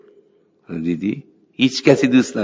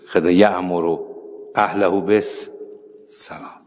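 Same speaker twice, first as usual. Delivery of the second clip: verse recitation; much slower than usual. Retold or imitated. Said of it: "مثل اینه که میگه".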